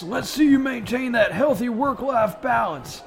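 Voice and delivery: drill sergeant. Acted. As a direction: yell orders at the recruits. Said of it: "Full Metal Jacket parody".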